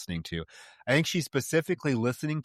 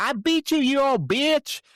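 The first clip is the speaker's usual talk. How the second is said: put-on high, loud Southern-accented yell; 14 semitones higher, 6 dB louder, slower than usual. Imitating the heroine's parking garage outburst, yelled Southern accent. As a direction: yell it in an angry Southern twang, drawn out at the end. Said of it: "comes out in a Southern accent".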